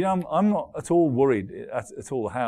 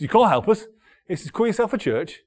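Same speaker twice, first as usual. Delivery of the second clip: higher, louder indignant retort; angry caller; 6 semitones higher, 4 dB louder than usual. Retold or imitated. Pastor imitating a man demanding money, angry retort. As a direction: snap back like an offended caller. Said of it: "He said".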